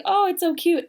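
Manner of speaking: high, bright mock gush over baby clothes; retelling a squeal at cute girl clothes. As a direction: coo it like you just found something adorable. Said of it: "I found girl stuff and I was like".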